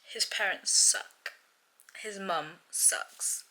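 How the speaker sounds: whispered, seething under the breath; angry whisper. Real, not acted. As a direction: hiss the words out quietly in disbelief. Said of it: "I just had an angry, emotional outburst".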